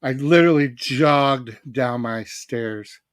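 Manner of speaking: slow, winded talk after jogging; out of breath. Real, not acted. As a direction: puff the words out after running down stairs. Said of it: "I'm out of breath".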